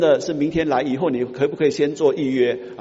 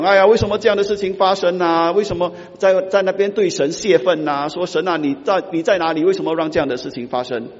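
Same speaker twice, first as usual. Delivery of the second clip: whining complaint; 4 semitones higher, 3 dB louder than usual. Retold or imitated. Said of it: "神还要听我们整天在那边讲".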